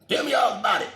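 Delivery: loud, high, eager cry; the second pastor, eager for the trick, shouts tell me. Retold or imitated.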